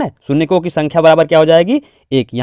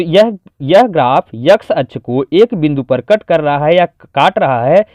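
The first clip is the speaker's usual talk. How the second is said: slow, measured written-answer delivery; dictating; slower than usual. Shown as a demonstration. Teacher giving the full exam answer, measured dictation. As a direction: dictate it phrase by phrase. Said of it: "इसको पूरी तरीके से लिखेंगे".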